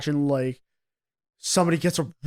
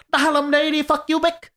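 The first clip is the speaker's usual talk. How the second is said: mocking prank-call Asian accent, much higher; squeaky cartoonish prank-call accent, sent up; 12 semitones higher, 4 dB louder than usual. Player mocking the cheap prank-call Asian accent, much higher. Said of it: "the fucking prank calls accent".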